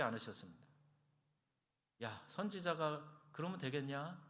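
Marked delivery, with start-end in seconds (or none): 2.0-4.2 higher and louder, a mock rebuke; imitated reproach, raised and loud; mock scolding. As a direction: scold him like a disappointed father. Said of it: "핀잔하고 야단치지 않으셨어요".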